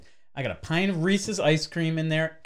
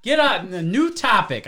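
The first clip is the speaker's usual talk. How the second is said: loud, high indignant shout; hammed-up angry yell; mock outrage; 9 semitones higher, 8 dB louder than usual. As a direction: yell it like the argument offended you. Mock rage over moon pies.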